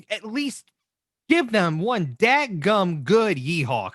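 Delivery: slow, drawn-out cowboy twang; playful cowboy drawl; mock cowboy. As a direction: ham up a little cowboy talk. Mock cowboy urging a yeehaw.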